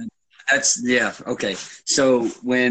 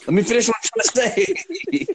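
exasperated; 10 semitones higher, faster than usual. Real, not acted. Interrupted a second time.

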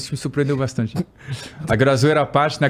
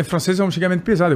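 usual speaking voice

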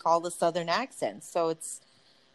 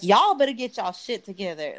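put-on Southern US accent; 3 dB louder than usual. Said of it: "you just sound like you're from Georgia".

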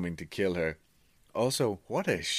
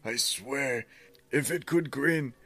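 dramatic storytelling read, higher than usual chat; story narration; 6 semitones higher than usual. A narrator's reading. Reader tells friend a creepy bird tale, dramatic narration. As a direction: read the creepy diary aloud with relish.

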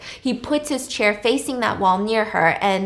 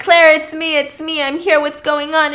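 raised, louder urgent calling; urgent reassurance; 5 semitones higher, 5 dB louder than usual. Retold or imitated. Acting him running back in to Claire, urgent. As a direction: call out high to make yourself known. Retold rushing in to panicked Claire.

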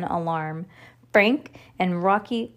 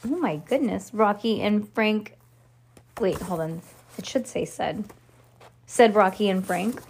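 plain reading voice

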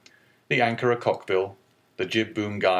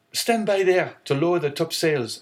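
higher, louder command to the crew; shouted order; 7 semitones higher, 3 dB louder than usual. Acted. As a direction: shout the order across the deck. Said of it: "the young man shouted".

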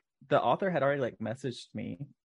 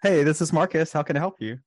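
bright, louder phone greeting; customer service voice; 4 semitones higher, 4 dB louder than usual. Pretend. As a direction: greet a caller cheerfully. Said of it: "do your customer service voice".

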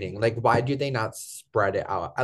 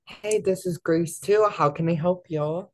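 high, slow, bright phone greeting; customer service voice; 8 semitones higher than usual. Retold or imitated. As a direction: answer like a front desk receptionist. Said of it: "I have the customer service voice down".

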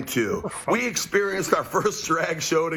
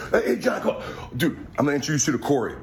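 country club guy; faster than usual. Retold or imitated. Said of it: "here's my impression of country club people".

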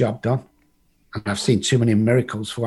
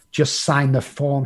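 slower, pressing repeat of the plea; insistent repeat; 2 semitones higher, slower than usual. Retold or imitated. Girlfriend urging Rob to sign the form, slow insistent. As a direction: lean on each word as she urges again. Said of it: "she kept saying".

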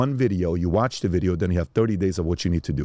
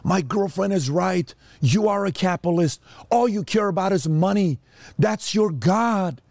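much higher, slow whining son's voice; mock rebellious kid; 10 semitones higher than usual. Grown son walking out on his capitalist father, high slow whine. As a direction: play the angry kid storming off on Daddy. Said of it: "they walk away and say".

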